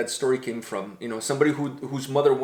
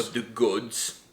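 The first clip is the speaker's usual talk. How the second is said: Floki accent; 4 semitones lower, 4 dB quieter, much slower than usual. Shown as a demonstration. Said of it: "I always like to say it with my, uh, Floki accent".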